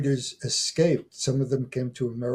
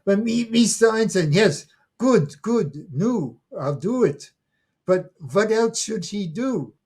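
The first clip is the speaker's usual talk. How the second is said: high, loud, eager grandmother; excited old woman; 7 semitones higher, 6 dB louder than usual. Retold or imitated. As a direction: gush back at him, flustered and eager.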